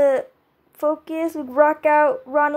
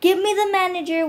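higher, bright mock yell of a Karen; happy yell; 6 semitones higher, 3 dB louder than usual. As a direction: yell it happily, demanding the manager. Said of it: "she's yelling happily".

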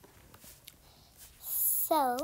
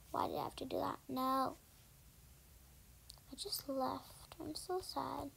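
whisper; 7 dB quieter than usual. Real, not acted.

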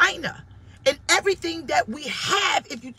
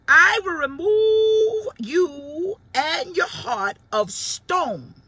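booming God voice; 5 semitones higher, 5 dB louder, much slower than usual. Acted. Preacher voices God's promise.

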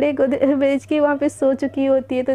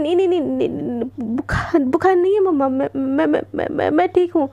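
flustered, tripping over every word; nervous stammer. Acted. Devika flustered, denying a fever to her mom, stammering. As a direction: stammer it out like she's been caught. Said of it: "आप इतना घबरा क्यों रहे हो".

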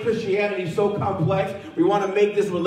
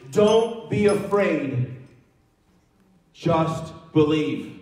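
slow reassurance; 3 semitones lower, much slower than usual. Retold or imitated. Jesus' response, slowed.

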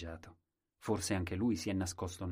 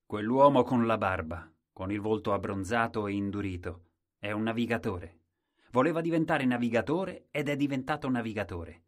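proud king; 6 dB louder than usual. Acted. The king describes the navigator.

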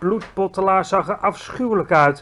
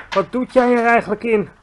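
higher, raised giant question; called-out demand; 6 semitones higher, 4 dB louder than usual. A narrator's reading. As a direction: demand it suspiciously at raised volume. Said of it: "riep hij".

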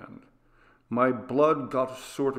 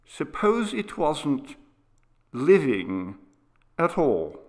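put-on a boy's slow, higher, uneasy voice; lightly voiced boy, drawing it out with dread; hushed boy; 3 semitones higher, slower than usual. Boy hinting to his father it was a ghost, slow and uneasy.

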